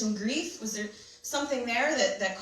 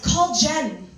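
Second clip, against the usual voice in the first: mystery voice; 3 semitones higher, 7 dB louder than usual. Retold or imitated. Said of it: "there's this voice".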